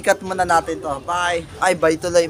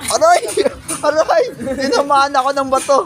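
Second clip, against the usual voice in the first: hit hard crying out; 5 semitones higher than usual. Real, not acted. Hit by a stone.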